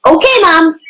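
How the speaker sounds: high-pitched call back to a parent. Acted. Child answering mom while getting ready, calling back high.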